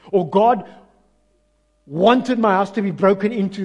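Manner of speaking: loud, emphatic sermon; preaching loud. Real, not acted. Preacher warns the congregation against false beliefs, loud and emphatic. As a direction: drive it home to the church.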